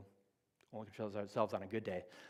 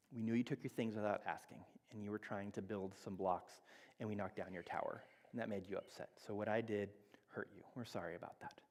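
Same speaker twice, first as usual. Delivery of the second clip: soft modeled apology; 4 dB quieter than usual. Retold or imitated. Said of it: "I'll go use my voice for you".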